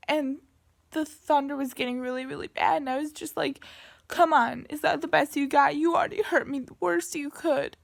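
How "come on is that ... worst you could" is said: taunting shout. Retold or imitated. Taunting the thunderstorm.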